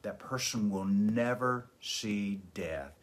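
slow, drawn-out "never"; stress on never. Shown as a demonstration. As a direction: underline "never" by stretching it out slowly. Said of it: "Underline the word never".

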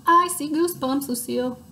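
high, loud and eager; excited Sheldon. A narrator's reading. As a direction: shout it out eagerly.

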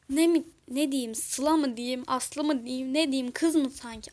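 loud, exasperated string of questions; exasperated retort. Acted. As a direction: fire back loudly in annoyance. Exasperated quarrel over a name.

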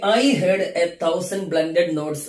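each word drawn out very slowly; slow poetry reading. Shown as a demonstration. Teacher reading a poem line slowly to students. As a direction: read the line slowly for the class. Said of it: "ഒന്നാമത്തെ വരിയിൽ".

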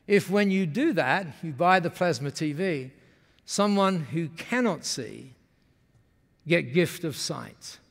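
slowing, measured Japanese-English imitation; Masami's Japanese-accented English. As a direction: reveal the idea slowly in Japanese broken English. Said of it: "when they speak like that".

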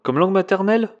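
high-pitched mock disbelief, rising; incredulous exclamation. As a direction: echo it as an astonished question. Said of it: "Vous entends-je vous exclamer".

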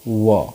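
व said alone as a short va; isolated va sound; letter sound v. Shown as a demonstration. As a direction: give the bare va sound for व. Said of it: "वी का जो sound आता है".

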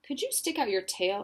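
ordinary delivery, nothing marked

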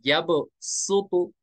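यब सुतो slow, with a seen sound in सुतो; s instead of saad. Shown as a demonstration. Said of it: "सीन पढ़ेंगे तो क्या पढ़ेंगे". (यब सुतो में सीन की आवाज़)

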